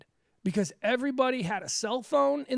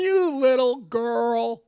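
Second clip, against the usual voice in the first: slow, louder, laughing through it; laughing put-down; 7 dB louder, much slower than usual. Retold or imitated. Host laughs while repeating Baldwin's insult to the photographer. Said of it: "And he was just like".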